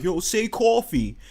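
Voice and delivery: high, slow mock request; imitating other people. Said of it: "people be like".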